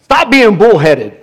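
put-on English accent. Revivalist rebuking stubborn church leaders, English accent. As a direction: scold in a mock English preacher's accent. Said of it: "in his English accent".

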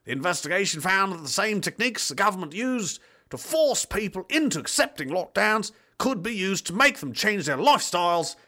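lilting, theatrical news read; report read-out. Acted. Reading the deleted report to viewers, theatrical read. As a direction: read it out like a pompous newsreader.

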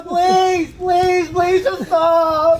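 slow pleading through laughter; mock begging; laughing plea. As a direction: drag it out, cracking up.

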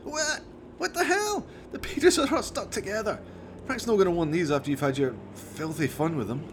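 high outraged squawk; disgusted shock. Acted. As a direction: recoil in disgust, voice jumping up. Jones disgusted by stained magazines.

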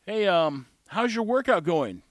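hesitant, tactful small talk; sugarcoated question. Acted. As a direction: ease politely into the question. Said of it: "a way to sugarcoat things".

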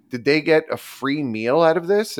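indignant quote, voice lifted but not shouted; retold indignation. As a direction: challenge the waitress, retelling your disbelief. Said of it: "I'm fuming to the point".

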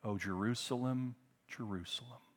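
a soft, grieving call that fades away on the second name; heartbroken lament. Acted. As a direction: sigh the name out of a breaking heart. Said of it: "his heart was breaking".

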